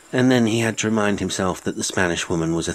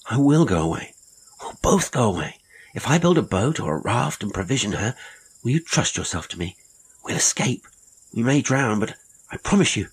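eager; 5 semitones higher than usual. A narrator's reading. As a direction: rush to convince her of the escape. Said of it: "he said eagerly".

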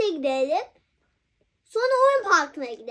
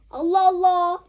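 Allah Allah exclaimed louder, exasperated; 4 dB louder than usual. Pretend. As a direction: throw up your hands in mock exasperation, Allah Allah. Exasperated mother scolding child.

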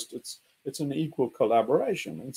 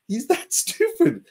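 laughing scorn; 9 semitones higher, 3 dB louder, slower than usual. Real, not acted. Laughing mockery.

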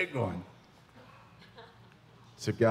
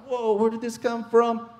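high, louder astonished whoa; high, louder mock amazement at the backpack; mock surprise; 13 semitones higher, 5 dB louder than usual. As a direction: act amazed at the find. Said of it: "And you're like".

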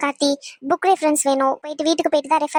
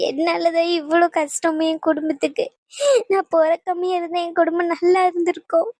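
slow, sobbing lament; tearful self-blame; slower than usual. Acted. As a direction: blame yourself through tears. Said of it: "இப்படி உட்காந்து அழுதுகிட்டு இருக்க".

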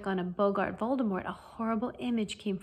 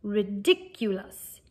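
slow, drawn-out incantation; spell cry; 3 dB louder, slower than usual. A narrator's reading. Lupin demonstrating the charm for his pupil, crying it. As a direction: stretch out the word like a demonstrated spell. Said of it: "raise your wand thus and cry".

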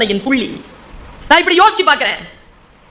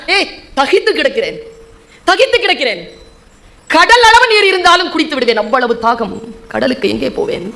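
poetry recitation. Acted. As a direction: recite a thirsting lover's plea, sinking into resignation. Recites a poet's verse to audience.

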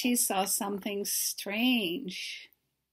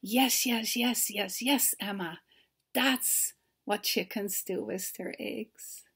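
pleased farmer; 4 dB quieter than usual. Acted. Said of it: "the farmer said".

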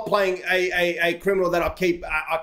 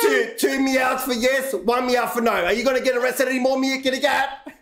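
mock quizzing shout; 5 semitones higher than usual. Quizzing kitty, shouting over noise.

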